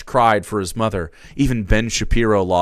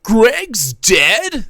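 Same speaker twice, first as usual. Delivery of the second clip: high, louder stunned question; a higher, louder startled voice; shocked disbelief; 12 semitones higher, 6 dB louder than usual. Acted. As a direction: gasp it out in disbelief. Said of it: "That's my voice".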